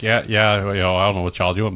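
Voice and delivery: a quick, light Southern lilt; Southern dialect. Retold or imitated. With family in Arkansas, a light Southern lilt. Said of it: "it's a different dialect".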